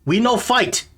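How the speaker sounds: high-pitched goblin protest; agitated goblin. Acted. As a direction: warn intruders off in a high creature voice. Goblin answers through the door.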